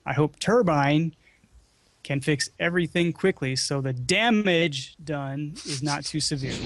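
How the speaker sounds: "Turbine" and "damage" leaned on; deliberate stress on "Turbine" and "damage"; emphasized words. Shown as a demonstration. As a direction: read it punching "Turbine" and "damage". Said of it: "emphasize his words".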